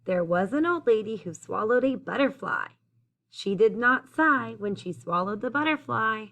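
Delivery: clear, lilting rhymed storytelling; picture-book read-aloud. A narrator's reading. Reader telling children about the old lady, lilting storytime read-aloud. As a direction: read the rhyme out to young listeners.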